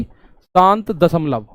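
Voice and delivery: teacher drilling the class on the term, slowly; slow, drawn-out answer. Shown as a demonstration. शिक्षक की तरह "शांत दशमलव" धीरे-धीरे. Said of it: "क्या बोला जाएगा भाई?".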